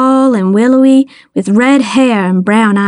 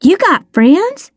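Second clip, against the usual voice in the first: high-pitched, drawn-out incredulous question; amazed, pitch up; gasped disbelief; 7 semitones higher, slower than usual. A narrator's reading. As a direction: marvel at it slowly, voice high. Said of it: "I gasped".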